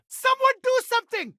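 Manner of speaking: desperate high shout; calling for help. Acted. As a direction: cry out to the crowd for help.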